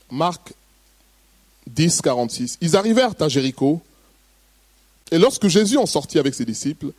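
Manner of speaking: measured, steady Bible reading; scripture reading. Acted. Pastor reads the Gospel passage to the congregation, measured reading. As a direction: read the passage out clearly to the congregation.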